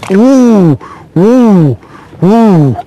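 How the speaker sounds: short whoops, each falling in pitch; excited whooping. Real, not acted. Angler with a fish on, excited whoops.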